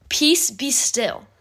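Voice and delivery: slow, measured rebuke; understated command, each word given time. Retold or imitated. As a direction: rebuke it slowly and deliberately. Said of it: "He rebuked it".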